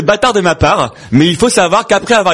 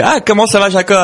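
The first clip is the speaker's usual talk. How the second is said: higher-pitched joke character saying hello; lightly acted greeting; 5 semitones higher than usual. Moshe runs into Jacob in a joke, lightly acted greeting. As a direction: greet an old friend in a lightly put-on, raised voice.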